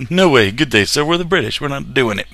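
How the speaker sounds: high, loud hammed-up British refusal; mock British accent. British refusing the Dutch-style trade deal, mock British accent. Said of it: "All right, that's my British".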